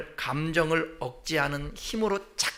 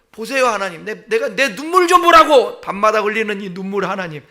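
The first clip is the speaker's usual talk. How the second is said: a rising, louder cry of look at my tears; tearful plea; 6 dB louder than usual. Acted. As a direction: show God your tears, half pleading. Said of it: "하나님 앞에 고백하는 거예요". (눈물을 보아 달라고 호소하듯)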